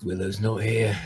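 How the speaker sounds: quiet, muttered sigh under the breath. As the players leave, the game master voices a character sighing under his breath. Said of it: "kind of sigh out under his breath".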